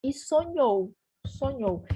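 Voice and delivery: "sonhou" with a strong final syllable; stress on last syllable. Shown as a demonstration. Teacher showing the accented syllable, final stress on "sonhou". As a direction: lean on the end of "sonhou". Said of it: "esse acento é pra marcar a sílaba tônica".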